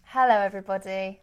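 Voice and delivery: lightly sing-song class greeting; teacher voice. Acted. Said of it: "That was my teacher voice".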